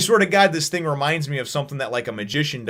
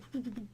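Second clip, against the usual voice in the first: imitated fluttering; 11 semitones higher, 18 dB quieter than usual.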